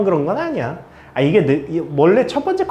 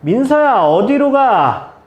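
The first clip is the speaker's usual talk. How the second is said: slow, louder drawn question; drawn-out call; 5 semitones higher, 5 dB louder, slower than usual. Real, not acted. Teacher pressing 민서 for the answer, slow and louder. Calls on student 민서.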